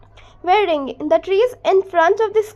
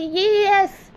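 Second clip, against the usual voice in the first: stammering; 3 semitones higher, much slower than usual. Retold or imitated. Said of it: "भोली हकलाते बोली".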